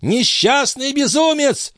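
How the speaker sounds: put-on high, slow, shrill-pitched outcry of the old man; cried out. A narrator's reading. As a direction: cry out at the fool in scorn. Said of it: "вскричал Альтатас".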